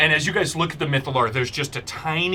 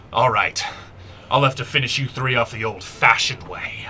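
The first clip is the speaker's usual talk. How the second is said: menacing god; 2 semitones lower than usual. Acted. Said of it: "and she goes".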